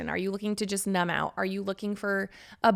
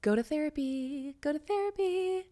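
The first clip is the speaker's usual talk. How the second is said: emphatic plea; 7 semitones higher, 6 dB quieter than usual. Real, not acted. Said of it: "I would tattoo this on my forehead".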